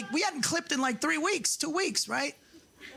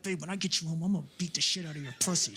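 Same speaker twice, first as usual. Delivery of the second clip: lusty husband; 4 semitones lower, faster than usual. Retold or imitated. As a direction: growl it to his wife. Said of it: "You're like".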